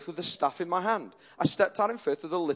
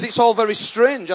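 emphatic retelling; 5 dB louder than usual. Retold or imitated. Same quote repeated, emphatic.

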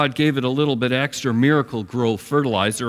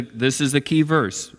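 ordinary talk

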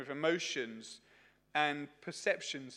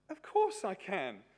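acted eager obliging; 6 semitones higher, 6 dB louder, slower than usual. Acted obliging reply to shopper.

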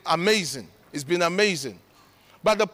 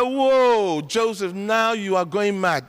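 retold whoa; slower than usual. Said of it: "I said".

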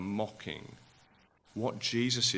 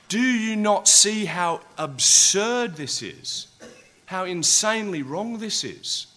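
loud, higher, slow outrage; raging; 8 semitones higher, 8 dB louder than usual. Acted. Preacher voicing Jesus at the injustice, loud outrage. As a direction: let the injustice boil over. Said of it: "raging inside of me".

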